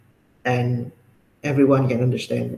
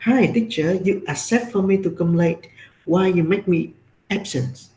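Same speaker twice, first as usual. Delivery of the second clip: imitating a complaining student; 3 semitones higher than usual. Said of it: "Then he said".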